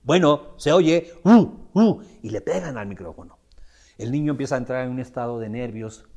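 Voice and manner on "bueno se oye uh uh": mic check. Retold or imitated. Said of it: "Y típico".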